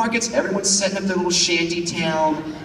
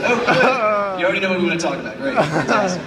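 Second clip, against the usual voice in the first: eager missionary; faster than usual. Retold or imitated. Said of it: "they said".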